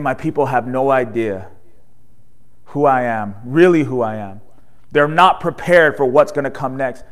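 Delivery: understated lament over his people; mild sorrow. Retold or imitated. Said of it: "He's saying".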